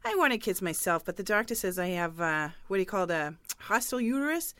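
hammed-up working-class townie, chatty and loud; brassy local lady. Patty chatting with Sully the newsstand guy, brassy townie.

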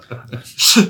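a brief amused laugh; short laugh. Real, not acted. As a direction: laugh out loud once. Lacht über Regierungssprecher-Vergleich. (kurzes lautes Lachen)

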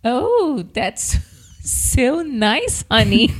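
mock-sweet coo, half giggling; imitating a sweet woman. Shown as a demonstration. Wife imitating a feminine reply for her husband, giggly. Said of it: "I'm just imitating".

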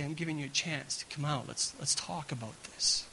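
soft, gentle invitation; inviting. Pretend. Preacher voicing a loving God inviting Adam out gently. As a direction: coax them out kindly. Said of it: "who loves and is calling an invitation".

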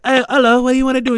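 mock the actor's small polite voice; small timid British guy. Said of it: "his voice and his stature".

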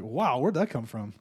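low, amused self-mocking wonder, breaking into a laugh; amused disbelief. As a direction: laugh at your own grumbling. Laughing at own grumbling.

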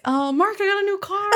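mock-excited announcement rising high with a laugh; light, high, giggly reveal; retold happy news. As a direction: share good news, pitch climbing. Retells happy news to Mark.

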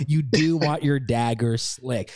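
slow, with a laugh in it; amused, slow. Shown as a demonstration. Cohost relishes the ad's phrase, slow and laughing. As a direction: savour the phrase while chuckling. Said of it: "put the word dagger slick".

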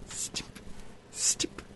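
slow, drawn-out mock ASMR barber voice; ASMR roleplay barber. Host playing barber to his co-host, mock ASMR. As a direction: play a hammy tingle champion with whispered snips.

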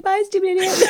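high-pitched playful parting insult; mock huffy exit. Listener mimics the offended man.

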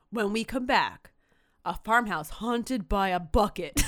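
loud movie-trailer announcer, lightly done; Don LaFontaine. Acted. Host previewing the next story, trailer announcer voice. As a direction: tease it like a trailer voice-over. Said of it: "the Don LaFontaine In a World voice".

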